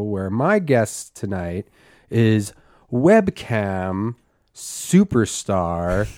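slow, measured news anchor intro; Barbara Walters style. Acted. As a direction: deliver it like a TV interview host. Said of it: "like, a Barbara Walters style intro".

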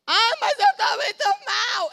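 a laughing mock whine of someone feeling sorry for themselves; mocking complaining soul. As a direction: parody a self-pitying believer. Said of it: "mocking a complaining soul".

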